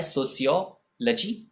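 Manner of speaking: "सोशियोलॉजी" as so-see-yo, luh-jee; careful pronunciation. Shown as a demonstration. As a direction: say "सोशियोलॉजी" in two parts with an s. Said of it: "और ये word होता है".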